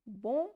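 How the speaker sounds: "bon" stressed as a nasal example. Shown as a demonstration. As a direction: push "bon" through the nose. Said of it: "there is a nasal sound".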